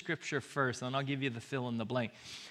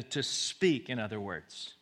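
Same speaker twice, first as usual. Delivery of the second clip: ordinary talk, nothing marked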